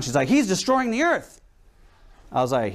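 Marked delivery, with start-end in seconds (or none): 0.3-1.4 high, slow mock alarm; freaking out. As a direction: imitate an upset lady, stretched out and high. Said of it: "This lady is just freaking out".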